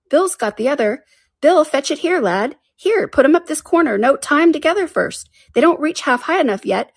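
high, hurried-sounding workmen calling orders; busy crowd voices. A narrator's reading. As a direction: call instructions across a working crew. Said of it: "a good many voices all talking together".

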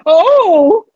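shouted warning across the water; calling out. Acted. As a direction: yell it to the other ship. Pirate spots ship, yells warning.

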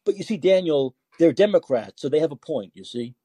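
feigned earnest explaining, sarcastically; sarcastic. Real, not acted. Host explains Democrats' point to Daniel, sarcastic. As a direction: make the point in mock sincerity. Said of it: "I'm being sarcastic".

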